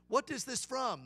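put-on Vietnamese accent. Restaurant owner asks about scriptures read, Vietnamese accent. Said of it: "try to do a Vietnamese accent".

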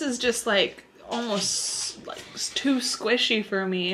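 talking while chewing; mouth partly full. Real, not acted. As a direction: donut held at lips. Seen 1: Woman holds a bitten donut piece at her mouth while talking.

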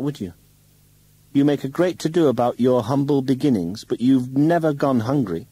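shrill, loud and furious; rising anger, high and loud; angry woman. Acted. Heated quarrel, woman attacks.

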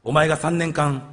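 holding back tears. Acted. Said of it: "涙をこらえながら".

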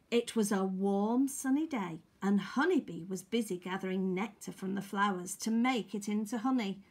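lively, projected storybook reading; story narration. Acted. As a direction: read it out to little children. Reads a picture story.

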